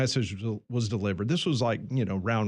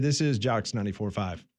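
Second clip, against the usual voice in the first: ordinary talk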